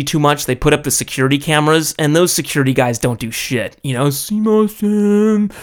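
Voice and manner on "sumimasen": a lightly voiced old guard bowing and begging; meek old Japanese guard. Guard politely asking the soccer players to stop. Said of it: "some old guy".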